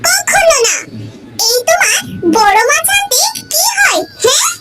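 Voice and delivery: shouted, half-laughing indignant refusal; outraged shouting wife. Acted. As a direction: yell it back at him in disbelief, then a flat no. Wife outraged at cooking demand. (রাগে চিৎকার করে প্রত্যাখ্যান)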